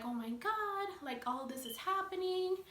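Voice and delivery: high, whiny mock crying to mom; retold tearful panic. Daughter freaking out as she calls mom, mock tearful panic. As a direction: imitate a tearful, panicked wail, pitched well up. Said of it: "I start crying".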